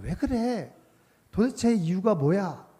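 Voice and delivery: high-pitched, insistent questioning; pressing, demanding. Retold or imitated. Parent to a crying baby who cannot understand, acted-out pressing. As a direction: imitate a parent demanding answers. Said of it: "알아들을 수 없는 아이에게 다그치듯이".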